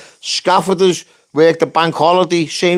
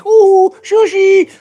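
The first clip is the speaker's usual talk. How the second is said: mock shushing; 5 dB louder, much slower than usual. Mocking the judges.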